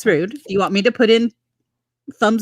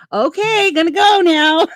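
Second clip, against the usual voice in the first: high-pitched goodbye breaking into laughter; retold hasty goodbye; 9 semitones higher, 4 dB louder, slower than usual. Friend begging off the phone with Randy, retold high and laughing. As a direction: laugh through a hammed-up, hurried sign-off. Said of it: "I said to Randy".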